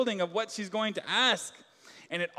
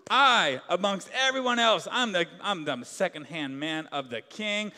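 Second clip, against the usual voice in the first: a mock-jubilant, sing-song boast from a proud man; gleeful Haman. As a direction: play Haman full of himself, a touch of a crowing strut. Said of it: "He's singing along like".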